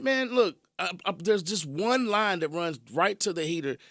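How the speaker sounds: hammed-up exasperation, hot at first then settling; retelling an argument, worked up; exasperated disbelief. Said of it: "I'm like".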